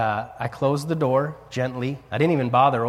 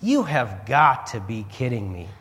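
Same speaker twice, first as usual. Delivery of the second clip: disbelief; 2 semitones lower than usual. Retold or imitated. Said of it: "and I'm like".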